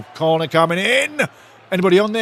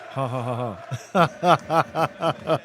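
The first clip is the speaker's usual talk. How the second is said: spelt-out laugh; 3 semitones lower, much slower than usual. Real, not acted. Laughing at Mark's chat message.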